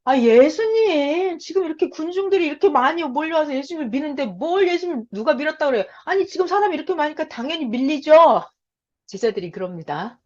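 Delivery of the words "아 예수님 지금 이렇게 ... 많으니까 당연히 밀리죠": higher, protesting disciple voice, a bit put-on. Disciples answer Jesus in a raised, exasperated voice. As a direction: disciples brushing off Jesus, all this crowd is pushing. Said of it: "제자들은 뭐라 그래요?".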